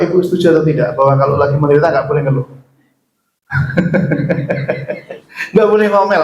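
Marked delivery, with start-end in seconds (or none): 5.5-6.2 mock wrong belief. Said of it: "Ada yang menganggap begitu".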